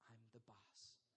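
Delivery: lightly voiced little daughter, low and soft; a hint of a stubborn three-year-old; toddler's defiance. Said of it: "and she goes".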